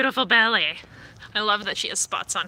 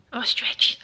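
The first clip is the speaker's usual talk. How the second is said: whisper; 2 semitones higher than usual. Real, not acted. Owner whispering as her cat stretches.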